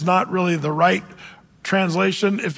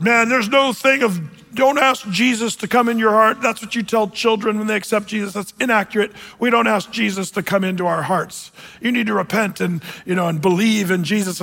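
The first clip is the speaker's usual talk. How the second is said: pulpit pounding. Retold or imitated. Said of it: "This guy was pounding the pulpit".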